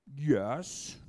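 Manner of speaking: loud sharp yes; retorting. Acted. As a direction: snap back the answer. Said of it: "Jonah retorted".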